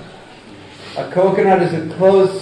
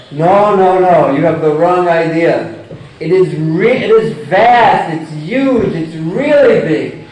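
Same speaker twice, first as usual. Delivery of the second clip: emphatic ocean frog. Acted.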